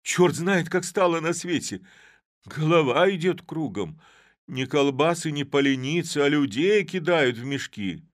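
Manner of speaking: loud, high bewildered rant; the world has gone mad and you can't cope; alarmed weaver. A narrator's reading. Weaver to everyone, loud and high in alarm.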